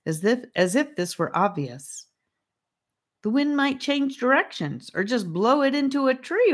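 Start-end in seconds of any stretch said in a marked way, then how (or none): 3.2-6.5 anxious. Acted. Charlie worried, arguing.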